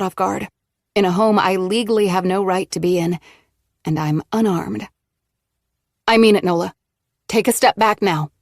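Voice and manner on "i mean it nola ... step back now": louder, firm order without a tremor; forceful command. Acted. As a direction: plant your feet and order her back. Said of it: "the words come out forcefully".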